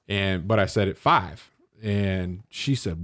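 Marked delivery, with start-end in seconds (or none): 1.0-1.5 FIVE said the Southern way; Southern-style FIVE; Southern pronunciation. Retold or imitated. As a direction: say "five" with a drawled Southern vowel. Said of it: "It is not five".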